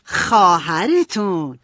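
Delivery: slow, drawn-out reveal with a smile; smiling. A narrator's reading. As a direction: stretch it out proudly through a smile. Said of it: "با لبخند گفت". (با لبخند، کشیده و شمرده)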